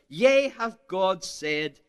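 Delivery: slow, sly drawn-out "Yea"; sly serpent drawing Eve in; mock devil's tempting question; devil's taunt. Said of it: "the emphasis is on that word".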